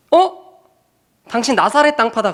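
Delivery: 높게 치켜올린 "어?"로 시작하는 폭로; 찾았다는 듯 높게 지목하기; 여종의 폭로. Retold or imitated. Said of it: "그러거든요". (설거지 마친 여종이 베드로를 지목, 높은 목소리)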